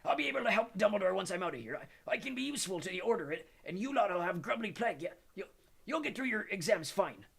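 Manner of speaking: Hagrid's voice with stumbling, repeated words, holding back tears; a big man trying to sound brave while upset; voice breaking. A narrator's reading. Hagrid tells the children he may be sacked, voice breaking. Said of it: "His voice trembled and broke".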